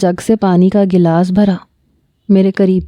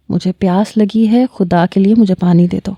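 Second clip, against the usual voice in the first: calm and gentle. Retold or imitated. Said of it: "بڑے آرام سے کہا". (نرم اور آرام سے التجا)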